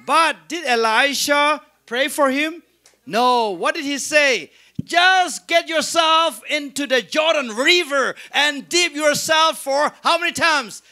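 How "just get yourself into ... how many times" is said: raised, higher voice giving an order; retold command. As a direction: call out the prophet's order, mildly shouted. Retold prophet giving Naaman orders.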